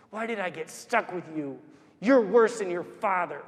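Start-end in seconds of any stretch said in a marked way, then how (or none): 0.1-1.6 soft retold reproach; hushed echo. Mother walking ahead of the crying boy, hushed echo. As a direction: replay the reproach quietly. Same insults echoed from far ahead.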